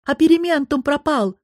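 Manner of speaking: panicked shout of the loss; horrified cry. A narrator's reading. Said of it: "с ужасом выкрикнул он". (в ужасе, громко и высоко)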